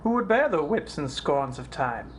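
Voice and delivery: mounting dramatic protest; building indignation. Acted. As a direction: list each wrong, building to an outburst. Hamlet's list of wrongs builds.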